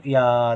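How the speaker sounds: या held long; long vowel. Shown as a demonstration. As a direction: stretch the aa in या. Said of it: "देर तक बोल रहे हैं".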